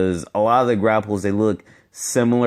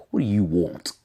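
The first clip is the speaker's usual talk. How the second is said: lightly imitated British accent; Eddie. Vlogger quoting a Tekken fighter who walks up, British accent. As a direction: put on a British accent for a quoted game line. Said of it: "he sounded British to me".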